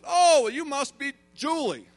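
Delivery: high, bright-eyed welcome in a wife's voice; effusive greeting. Retold or imitated. Wife greeting a newcomer, retold.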